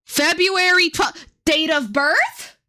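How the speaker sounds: slow and drawn out, lips barely moving; slow, strained repetition. Retold or imitated. To the receptionist who keeps asking, slow, strained repetition. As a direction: spell it out slowly through sore lips. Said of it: "really trying not to hurt myself".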